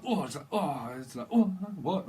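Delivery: mock pained yelps; wincing in pain. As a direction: play-act someone caught by a twinge. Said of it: "someone winces".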